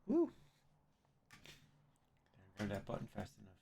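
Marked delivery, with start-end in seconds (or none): 0.1-0.3 sneezing. Real, not acted. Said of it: "I have to sneeze".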